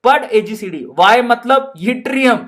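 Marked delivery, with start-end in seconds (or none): 0.0-0.9 put-on the teacher telling off the boy in Rajasthani; Rajasthani madam. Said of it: "madam कहती है". (Rajasthani madam की डांट)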